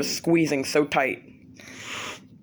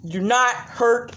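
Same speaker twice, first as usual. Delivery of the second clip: scolding; 5 semitones higher, much slower than usual. Real, not acted. Scolding the dog.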